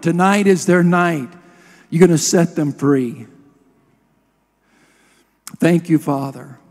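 earnest prayer led from the pulpit; heartfelt petition, settling at the close; public prayer. Real, not acted. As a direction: pray aloud with steady conviction. Leads a prayer.

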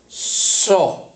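"decimos so" at half speed, drawn out; slow blending. Shown as a demonstration. Teacher slowly blending the syllable for the class. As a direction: stretch out "so" to show the blend. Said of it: "si unimos esos dos".

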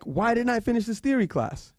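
mildly mock-angry, high-pitched demand; mad professor. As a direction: imitate an indignant professor demanding answers up high. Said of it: "she was so mad".

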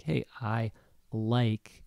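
"like" set apart after a pause; pause, then say "like" firmly; stress on like. Shown as a demonstration. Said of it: "strongly or with a strong voice".

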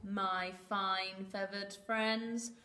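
a hint of oily charm, drawing out the end; Foxy Loxy grinning. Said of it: "grinned Foxy Loxy".

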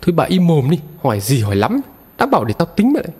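a mild acted scold, rising high at the end; furious scolding. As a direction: snap at the wife to shut up, half in earnest. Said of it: "điên tiết chửi". (chồng mắng vợ giận dữ nhưng không quá to)

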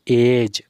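"एज" ending on a j sound; soft G word. Shown as a demonstration. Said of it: "जे का उच्चारण जा हो रहा है".

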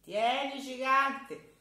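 put-on high, loud child's voice; a small boy reminding the giant of his promise; cheeky child handing over a fig; little boy voice.

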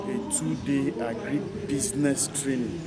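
business given extra weight and emphasis; emphatic stress on business in agri business training. Shown as a demonstration. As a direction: lean on the word business as the key point. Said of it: "the way I stress it, the word business is emphatically expressed".

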